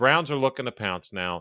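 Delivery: ordinary delivery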